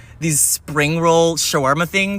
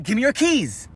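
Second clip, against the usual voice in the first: higher insistent repeat of the demand; repeated carjacker demand; 6 semitones higher than usual. Acted. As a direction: say it again, firmer. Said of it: "I said".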